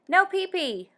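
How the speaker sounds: put-on high toddler squeal; baby squeal. A narrator's reading. Baby squeals an answer about fish, high and playful. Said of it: "squeals the baby".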